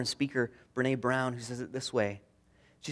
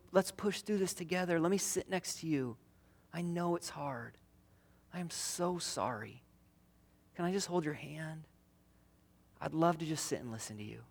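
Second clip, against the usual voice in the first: soft comforting words; 2 semitones higher, 6 dB quieter than usual. Shown as a demonstration.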